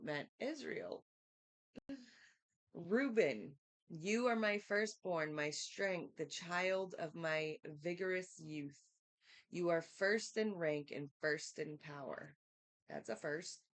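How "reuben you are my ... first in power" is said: scripture reading. Acted. Reads scripture aloud.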